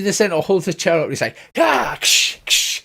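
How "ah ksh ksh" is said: high, sharp whip-crack sounds; whip crack noises. Retold or imitated. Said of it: "as he cracks the whip".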